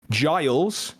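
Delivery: Giles leaned on with a rising pitch; stress on Giles. Acted. Brill to the players, stressing "Giles". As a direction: give "Giles" a pointed, rising push. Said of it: "he emphasizes that word".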